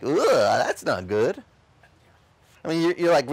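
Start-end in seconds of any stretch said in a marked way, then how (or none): 0.0-1.4 1 mock recoil. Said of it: "preach it in a way that makes it like".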